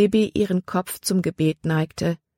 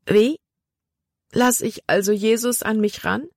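sobbing; 5 semitones higher than usual. Acted. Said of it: "Schluchzen brach aus Libby heraus".

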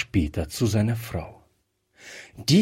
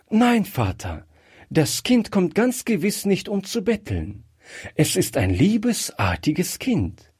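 a higher, bright-toned daughter's voice, quick; delighted daughter, fond; 8 semitones higher than usual. Acted. Daughter asks her father to let the girl in, higher and fond. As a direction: gush a little about a sweet child.

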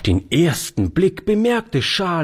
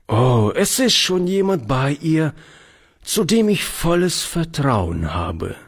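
reassuring; 5 semitones higher than usual. Acted. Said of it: "sagte Oliver beruhigend".

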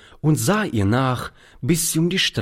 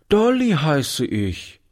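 put-on little girl; 6 semitones higher, slower than usual. A narrator's reading. Little girl answers Oliver.

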